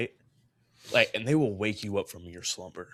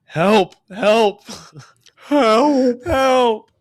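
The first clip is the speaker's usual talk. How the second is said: high, strained mock scream for help; whisper-screaming, half dying; 12 semitones higher, 12 dB louder, much slower than usual. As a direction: squeal it out loud like you're half dying. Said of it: "I'm whisper screaming and half dying".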